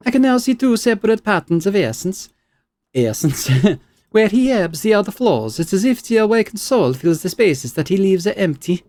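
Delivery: high, excited scholar; excited researcher. Acted. Scholar announces her findings to a colleague, high and excited. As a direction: report a discovery. Belasag voice.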